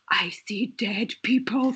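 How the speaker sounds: eerie whispered line, no voice at all; spooky whisper. Retold or imitated. Dazed patient whispering spookily to the paramedic. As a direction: whisper it like a creepy ghost movie. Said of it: "I looked up and I went".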